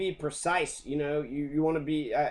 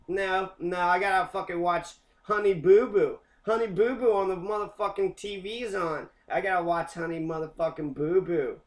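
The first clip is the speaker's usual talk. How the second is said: mock lazy couch potato; 3 semitones higher than usual. Mocking a non-voter who prefers TV, whiny. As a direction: whine about needing to watch TV.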